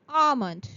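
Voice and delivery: "almond" said with no L, as "ah-mond"; silent L almond. Shown as a demonstration. Teacher showing students the silent L. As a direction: give "almond" without its L. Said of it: "The L in almond is silent".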